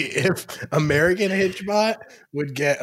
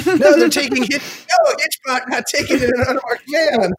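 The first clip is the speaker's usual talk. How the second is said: high, loud mock panic; mock alarm; 9 semitones higher, 4 dB louder than usual. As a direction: shout it like a rescue. Mock alarm, Hitchbot abducted.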